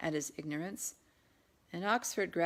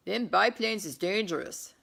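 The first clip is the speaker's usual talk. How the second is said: admiring; 3 semitones higher, 7 dB louder than usual. Acted. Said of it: "a burly man said with admiration".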